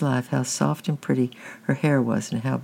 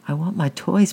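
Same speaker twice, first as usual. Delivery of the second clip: put-on child's higher-pitched plea; pleading; 6 semitones higher than usual. A narrator's reading. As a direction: plead for what you treasure. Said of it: "pleaded Francis".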